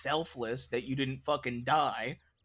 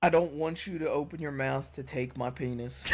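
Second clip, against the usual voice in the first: laughing; 3 dB louder than usual. Real, not acted. Joking, breaks into laughter.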